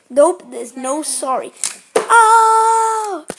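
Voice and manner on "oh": surprised oh. Pretend. Car crash in play.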